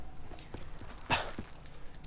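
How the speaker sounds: long, soft, voiceless sigh; weary sigh. Real, not acted. Storyteller exasperated at this freaking guy, long sigh. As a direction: let out a long quiet breath.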